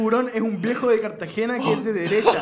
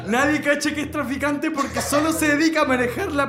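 glam americano shouting; 4 semitones higher than usual. Pretend. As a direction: read it like a shouting tabloid host. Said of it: "Voy a leer la historia gritando".

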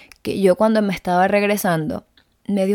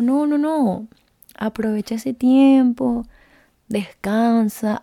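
body's gentle voice; 4 semitones higher, slower than usual. Retold or imitated. Her body soothing her.

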